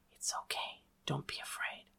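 very soft, voiceless whisper; soothing whisper. A narrator's reading. Girl calming a frightened companion she is holding, whisper. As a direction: whisper gentle reassurance to someone terrified. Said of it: "she whispered".

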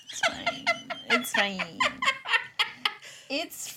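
creaky vocal fry voice. Shown as a demonstration. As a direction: let the words crackle into fry. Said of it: "How much vocal fry can we get into this episode".

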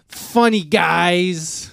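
funny guys, slowly stretched; drawn out intro. Acted. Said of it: "slow emphatic intro".

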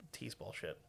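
unvoiced whisper aside. Real, not acted. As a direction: whisper it, disgusted.

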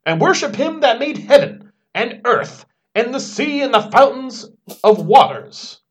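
high, loud little angel voice; sweet bubbly cherub voice. Retold or imitated. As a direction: proclaim it like a tiny angel. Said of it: "screaming out with his tiny little angel voice".

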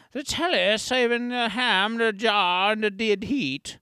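second go at a bad British accent; terrible English accent. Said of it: "Let me try that again".

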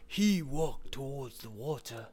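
slow, low Native American accent attempt; a bad try at a Native American accent, drawn out. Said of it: "Fuck, that's terrible".

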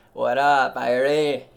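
loud, punchy shout-out; loud, playful what up shout; loud greeting. Pretend. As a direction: call it out like a DJ.

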